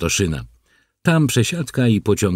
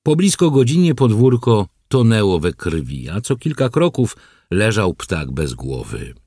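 ordinary delivery, nothing marked

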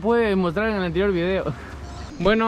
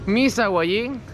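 muffled by surgical mask; speaking behind cloth mask; through a face mask; 5 dB quieter than usual. Real, not acted. Seen 0: Selfie speaker wears blue surgical mask over mouth and nose throughout.

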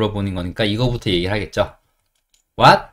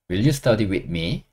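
very slow rising question; slow model question; 3 semitones lower, 4 dB quieter, much slower than usual. Shown as a demonstration. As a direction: ask it slowly for learners. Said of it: "이렇게 하시면 돼요". (천천히 묻는 말투)

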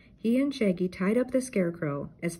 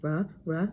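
sneeze build-up. A narrator's reading. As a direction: start a sneeze, barely. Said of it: "Scooby sneezed".

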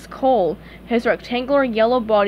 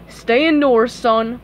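firm, louder word of caution; warning; 4 dB louder, slower than usual. Acted. Cop sends Patrick indoors, warning. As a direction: warn him firmly. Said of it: "one cop warned Patrick".

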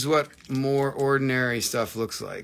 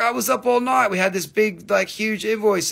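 imitating Bill; 8 semitones higher, 4 dB louder than usual. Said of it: "He was like".

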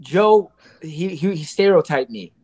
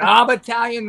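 mock Brooklyn Italian accent, a bit higher; imitated Brooklyn Italian; 4 semitones higher than usual. Guest teasing the host about his accent, mock Brooklyn Italian. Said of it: "you get real Italian. You, that Brooklyn accent comes out".

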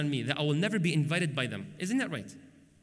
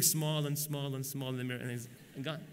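fading away; 4 semitones lower, 7 dB quieter than usual. Real, not acted. Telling how the passenger vanished in the mirror, fading away. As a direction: let it shrink softer and lower to the end.

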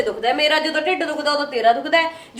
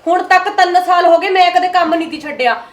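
louder, indignant self-defence; raised voice, hurt pride; heated protest; 5 dB louder than usual. Acted. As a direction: insist on her record. Heated quarrel defending herself.

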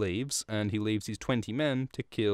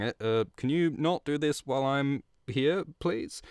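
pitched-up nervous pleading, lightly played; a jittery ask to be let out of it, climbing higher on please; 5 semitones higher than usual. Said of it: "tries to diffuse the situation a bit by going".

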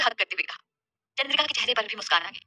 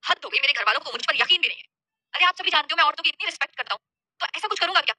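indignant, higher-pitched protest; mild anger; 5 semitones higher, 4 dB louder than usual. Acted. Shaurya hurt that family distrusts him, mildly angry. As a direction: protest with slightly raised temper. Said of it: "शौर्य ने हल्के गुस्से से कहा".

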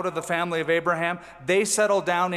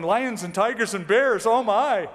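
mock fearful; 4 semitones higher than usual. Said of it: "not going".

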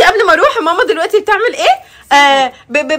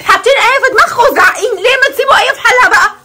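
exasperated, fed up; 4 semitones higher than usual. Real, not acted. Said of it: "هي فاض بيها خلاص".

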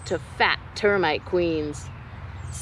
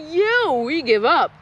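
spiders' yell; 4 semitones higher, 4 dB louder than usual. Acted. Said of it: "the spiders all yelled".

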